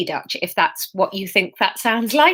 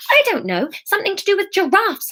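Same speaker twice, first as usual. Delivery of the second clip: higher, flustered inner reply; wild; 10 semitones higher, faster than usual. A narrator's reading. Emma answers her own thought, wildly. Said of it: "she thought back wildly".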